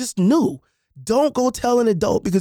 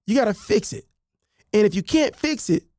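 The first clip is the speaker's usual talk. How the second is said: ordinary talk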